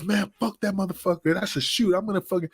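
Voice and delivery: mock the hothead wrestler cursing; imitating angry Kiwi. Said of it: "And he goes".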